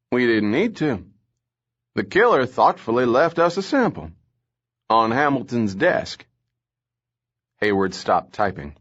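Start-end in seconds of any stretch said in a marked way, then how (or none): 0.1-6.3 a raised, lively cop voice relishing the grim details; gruff Southern lieutenant. Acted. Lieutenant Casson briefs the captain about the poison, animated. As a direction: tell it like a jaded cop with a gory story.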